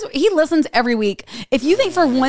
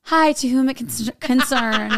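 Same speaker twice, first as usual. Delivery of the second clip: lightly mocked formal letter-writer voice; slight put-on formality, stumbling over the words; Spencer; 2 semitones higher, slower than usual. Teasing co-host about her formal texts, lightly mock-formal. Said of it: "Spencer's more like".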